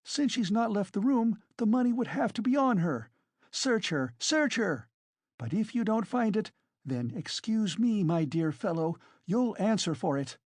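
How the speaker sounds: high-pitched, agitated woman; indignant, overwrought challenge; frenzied tirade. A narrator's reading. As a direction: rail at the accusers in defiant outrage. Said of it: "in a frenzy".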